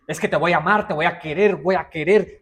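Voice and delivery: loving words shouted loud and high; mock-angry shout of kind words; scary loving words. Shown as a demonstration. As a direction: yell sweet words so they frighten. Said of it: "el niño se asusta".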